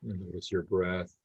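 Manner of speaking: calm meditation guidance with long pauses; unhurried, easy guide leaving space between phrases; guided meditation. Real, not acted. Leading a group to notice body and breath, guided meditation.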